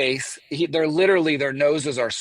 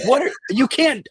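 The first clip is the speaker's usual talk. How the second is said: higher mock shocked yell; retold yelling; 10 semitones higher, 4 dB louder than usual. Telling hosts how she yelled at Jeremy, higher mock yell. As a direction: shout it in disbelief, half performed. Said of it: "I think I'm yelling".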